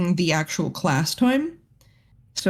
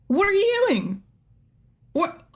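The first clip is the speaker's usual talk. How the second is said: retold scolding; 11 semitones higher than usual. Teacher retells scolding the boy.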